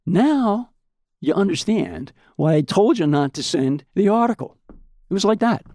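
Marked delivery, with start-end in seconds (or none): 0.0-4.6 nonchalant. Retold or imitated. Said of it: "he's just nonchalant".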